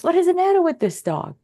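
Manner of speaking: high-pitched imitation of a baffled reaction; acted-out disbelief; mock indignation. Voicing everyone's natural reaction.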